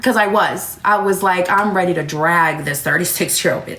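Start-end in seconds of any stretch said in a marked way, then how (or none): 1.5-3.8 low, menacing threat with DRAG stretched; retold threat. Mother fired up at older woman, low retold threat. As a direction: drop low and draw out "drag".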